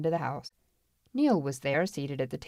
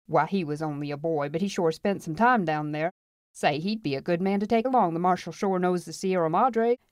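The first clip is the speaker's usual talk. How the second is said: put-on amused old-timer; 2 semitones higher than usual. Voices old Tom Curtis.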